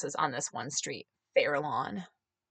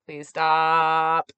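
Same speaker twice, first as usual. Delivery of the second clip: pained plea; 3 semitones lower, 4 dB louder than usual. Retold or imitated. Retold plea to mother.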